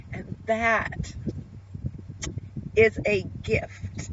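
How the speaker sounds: holding back tears, halting with long pauses; moved almost to crying, trying to get through it; real tearful. Real, not acted. Vlogger grateful she has hope to share, tearful. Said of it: "I was not gonna cry".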